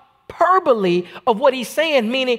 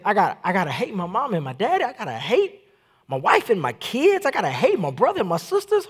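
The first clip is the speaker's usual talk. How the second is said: softer, quick, half-laughing complaint; mock dismay; 2 semitones lower, 5 dB quieter than usual. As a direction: play the baffled churchgoer, lightly mocking. Mocking a shocked listener.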